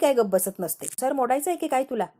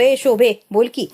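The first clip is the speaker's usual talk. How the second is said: louder, impulsive call; carried away by emotion; 7 dB louder than usual. A narrator's reading. Husband answering the phone carried away, calling Shobhi loudly. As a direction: call out in a rush of feeling. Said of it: "भावनेच्या भरात phone उचलतो आणि म्हणतो".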